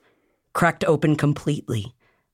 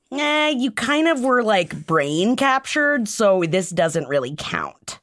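higher, dismissive ruling; mock Illyrian refusal; 6 semitones higher than usual. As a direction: brush it off like a gatekeeper. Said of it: "they'd be like".

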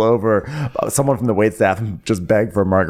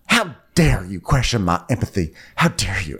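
understated imitation of indignant rage; a touch of outrage, held at speaking volume; mock enraged. Sutton defending her empathy to Diana, mildly acted rage. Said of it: "really enraged".

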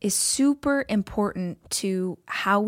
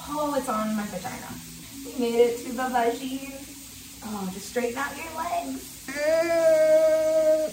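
in an ice bath; 7 semitones higher than usual. Real, not acted.

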